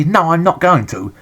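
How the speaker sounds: a fed-up gamer ranting back at the software company; defiant retort. Pretend. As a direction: tell them off, getting worked up. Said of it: "And I just say".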